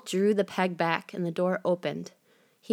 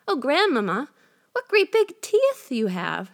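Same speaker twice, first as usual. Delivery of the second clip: put-on 1 alarmed girl; 7 semitones higher, 4 dB louder than usual. A narrator's reading.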